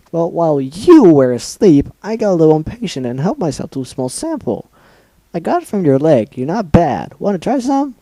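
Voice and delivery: high, bright creepy offer; creepy cheerful Pinkie. Acted. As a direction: sweetly offer the horror.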